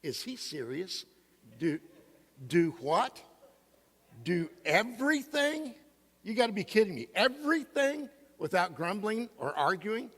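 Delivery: a preacher mocking his own shocked reaction; incredulous disbelief. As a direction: act amazed at the verse, half-joking. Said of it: "I read that again and I thought".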